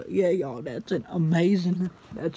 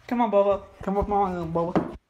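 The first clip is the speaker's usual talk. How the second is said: raised voice calling a pet; calling the dog; 3 semitones higher, 5 dB louder than usual. Real, not acted. Owner urging Bobo to come up, calling out. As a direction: call your dog over loudly.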